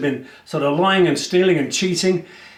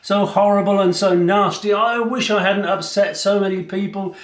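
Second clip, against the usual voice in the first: high, whiny lament of regret; self-pitying prisoner; 4 semitones higher than usual. Acted. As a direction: wail it out, feeling sorry for yourself. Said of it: "he was like".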